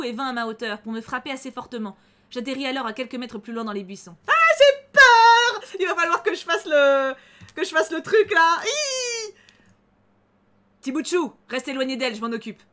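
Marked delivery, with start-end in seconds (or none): 4.3-9.3 high, loud, slow mock terror; hammed-up panic. Streamer voicing her heroine's panic, hammed-up shrieking fright. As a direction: wail it like a cartoon coward. Character knocked into bushes, panics.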